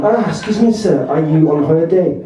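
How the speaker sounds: put-on French-accented radio interviewer; mock French-accented English. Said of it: "lapse into English with a French accent".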